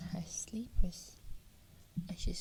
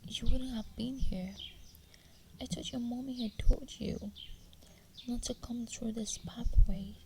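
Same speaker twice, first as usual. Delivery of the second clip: louder whispered scolding from the forest woman; stern scolding; 8 dB louder than usual. Acted. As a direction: scold her harshly but keep whispering. Witch scolds the captive girl.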